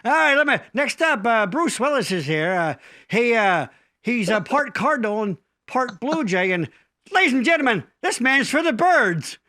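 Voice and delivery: lightly voiced old-school comic reading cards; a hint of a cheesy fifties joke teller; corny roast comic. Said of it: "like a fifties joke book".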